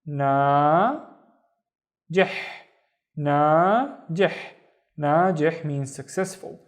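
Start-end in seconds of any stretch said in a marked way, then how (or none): 0.0-4.3 "na" then "jih", joined as "Na jih"; syllable by syllable. Shown as a demonstration. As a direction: sound out "Na jih" for learners. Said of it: "and then".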